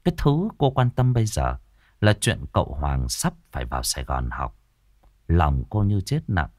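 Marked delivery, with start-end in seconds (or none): none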